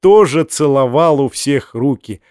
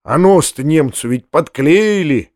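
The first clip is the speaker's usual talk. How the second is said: plain reading voice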